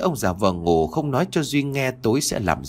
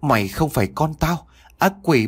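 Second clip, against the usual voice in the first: mother shouting; 6 semitones higher than usual. Acted. Mother whipping possessed child, screaming in fury. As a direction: yell at the demon with all your grief. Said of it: "vừa quật vừa nói".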